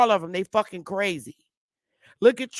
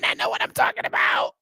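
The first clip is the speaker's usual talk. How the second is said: whispered; 9 semitones lower than usual. Real, not acted. Whispered follow-up to his claim.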